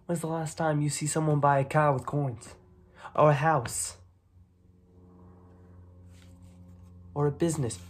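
mock the coins hard; scornful rant. Mob boss ridiculing the kid's coins, scornful.

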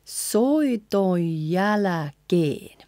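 slow soiton jälkeen, N of soiton becoming a J; drawn-out linked soiton jälkeen; N left out. Shown as a demonstration. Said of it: "leaving out the N".

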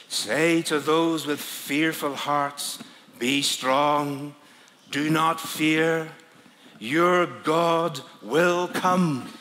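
slow, awed, triumphant recital; trembling but triumphant. Retold or imitated. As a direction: quote scripture slowly, moved and triumphant. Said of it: "trembling but triumphant".

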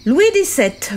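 the dying man throws Louis dix-sept back at the bishop; seizing on the name. Acted. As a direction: grab the words back at him. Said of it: "saisit le bras de l'évêque".

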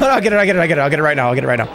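normal talking voice

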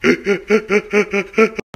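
Eddie Murphy style wheezing cackle; low breathy cackle; signature cackle. Acted. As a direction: break into that trademark hee-hee cackle. Trademark laugh after joke.

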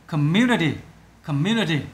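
"community" with stress on MU; second-syllable stress. Shown as a demonstration. Teacher giving the odd one out, second-syllable stress. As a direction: lean on MU in "community", said twice. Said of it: "là nhấn âm hai".

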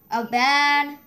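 slow, drawn out, fading to a murmur; dictating while typing. Real, not acted. Player typing about a bad Valentine, dictating slowly.

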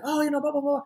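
imitating Jenna. Jenna greeting him after the hug, high and gushing. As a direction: lightly mimic an excited woman. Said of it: "she was like".

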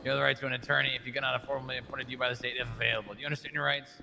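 rapid rote Miranda recital; reading rights. Acted. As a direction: rattle off the rights fast. Cop reads Miranda rights.

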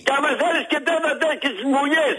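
fast, high-pitched rant; real angry outburst. Real, not acted. Caller quarrelling with the host, angry and fast. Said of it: "μη φωνάζεις".

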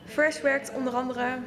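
Dutch with an English accent; English R in Fresh werkt, English accent. Real, not acted. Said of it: "zeg ik het weer".

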